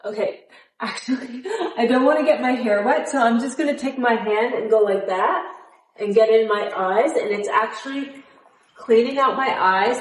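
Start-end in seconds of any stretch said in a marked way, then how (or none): 0.0-4.7 laughing. Real, not acted. Laughs at her own plan.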